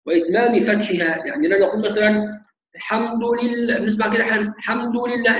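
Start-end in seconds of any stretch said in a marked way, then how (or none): 2.7-3.8 "الحمد لله" with the opening glottal stop missing; dropped hamza. Shown as a demonstration. Teacher shows students the error, الحمد begun without its hamza. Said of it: "الهمزة مش موجودة". 4.5-5.4 "الحمد لله" starting straight on the l, no glottal stop; dropped hamza. Shown as a demonstration. Teacher repeats the common mistake, الحمد without its opening hamza. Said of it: "الهمزة مش موجودة".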